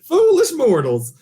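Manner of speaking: booming ghost host voice; spooky ride narrator, slow; dark lord. Shown as a demonstration. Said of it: "let's hear it".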